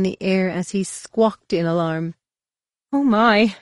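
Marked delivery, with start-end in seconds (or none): 2.9-3.5 high, loud fussy droid voice; a startled prim robot butler; C-3PO exclaiming. Acted. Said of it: "he exclaimed".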